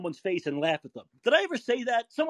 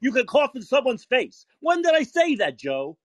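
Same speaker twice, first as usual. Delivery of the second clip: raised, heated demand; real indignant challenge; 3 semitones higher than usual. Real, not acted. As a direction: challenge the caller, voice climbing. Heated argument with the caller.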